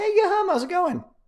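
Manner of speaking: very high-pitched voice. Greeting someone by name as they arrive, in a very high voice. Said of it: "oh my voice got very high just then".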